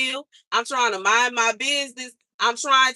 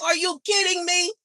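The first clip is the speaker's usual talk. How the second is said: high squealing disbelief, rising higher each line; mock disbelief; 11 semitones higher, 3 dB louder than usual. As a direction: squeak it out like you can't believe it. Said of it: "And I'm like".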